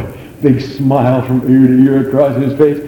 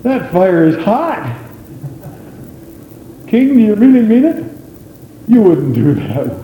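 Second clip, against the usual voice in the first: mock fearful Hebrew children. Hebrew children begging the king, mock whining plea. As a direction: beg the king like frightened boys, half in jest. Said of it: "they didn't talk like that".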